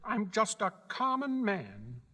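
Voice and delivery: meek little man. A narrator's reading. Exposed wizard admits being ordinary.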